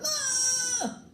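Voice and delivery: shrieked very high and loud; panicked scream at the baby; yelling in shock. Acted. Father shocked by the seal baby, high panicked shriek. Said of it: "He yelled".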